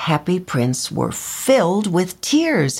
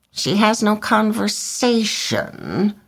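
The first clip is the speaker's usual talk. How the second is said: high, slow complaining bird voice; bored swallow; 6 semitones higher than usual. A narrator's reading. Swallow complaining about the reed, slow and high. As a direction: sigh it out, tired of her. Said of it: "he said".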